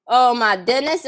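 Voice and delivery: normal talking voice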